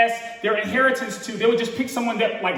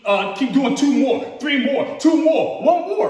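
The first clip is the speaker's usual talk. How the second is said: gym trainer; slower than usual. Retold or imitated. Trainer urging the preacher through the last reps, building up. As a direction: push like a coach calling the last reps. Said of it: "that trainer that was telling me".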